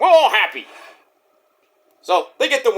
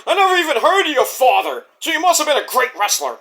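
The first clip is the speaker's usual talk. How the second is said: mock smug Christian; 7 semitones higher, faster than usual. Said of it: "Christian's like".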